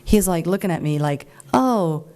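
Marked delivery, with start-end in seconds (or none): 1.5-2.1 higher, flustered inner voice of a cornered man; panicked candidate. Retold or imitated. The candidate caught out on the question, flustered and panicked. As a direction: imitate a caught-out man scrambling. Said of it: "he was like deer in headlights".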